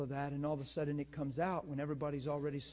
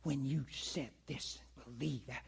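mildly mocking mad woman; 3 semitones lower, slower than usual. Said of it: "she was just way mad".

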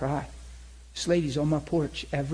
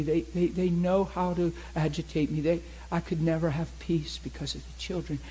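troubled sedated woman. Retold or imitated. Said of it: "She's talking real sedated".

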